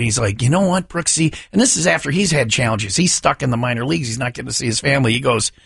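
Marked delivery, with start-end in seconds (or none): 0.4-1.4 mildly excited movie quote, pitch lifted. Retold or imitated. Retelling a film character talking to Brooksy, excited. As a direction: retell an eager ballplayer's line. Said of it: "he's just all excited".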